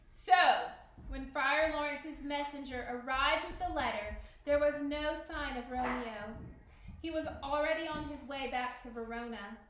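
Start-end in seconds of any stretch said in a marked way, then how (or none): 1.1-9.6 measured read-aloud storyteller voice; story narration. A narrator's reading. Teacher reading Romeo and Juliet to the class, story narration.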